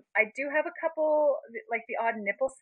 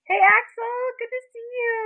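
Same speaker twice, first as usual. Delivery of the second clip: excited greeting; 12 semitones higher, 7 dB louder than usual. Real, not acted.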